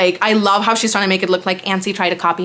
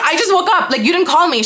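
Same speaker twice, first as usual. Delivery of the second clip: high innocent voice; 8 semitones higher than usual. Retold or imitated. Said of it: "And I'm like".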